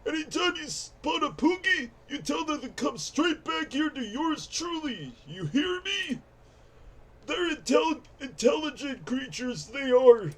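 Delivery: lightly voiced grumpy old codger; strained old-timer voice; old man voice. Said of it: "old man voice is normally easy for me".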